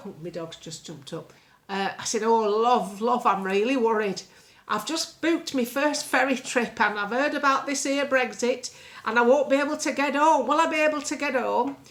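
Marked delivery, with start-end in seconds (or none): 2.2-11.8 put-on louder, higher fretful old lady. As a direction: play a worried old dear on the phone. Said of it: "a character called Missus Battersby, an old lady".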